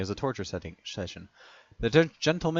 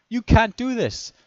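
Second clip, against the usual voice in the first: a much higher, louder protest scream; 13 semitones higher, 8 dB louder than usual. A narrator's reading. Alex screams at the guard in protest. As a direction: yell it in outrage at the guard. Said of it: "screams Alex".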